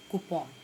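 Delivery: Coupon said koo-pon; correct pronunciation. Shown as a demonstration. Teacher giving students the right coupon. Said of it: "इसको बोला जाता है कूपन".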